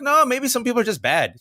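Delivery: hammed-up whiny protest; mock cynical husband. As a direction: play himself as the jaded one. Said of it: "I'm like".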